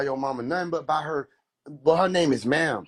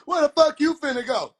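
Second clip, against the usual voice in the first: mama voice; 10 semitones higher, 4 dB louder than usual. Acted. Hood mama scolding her son.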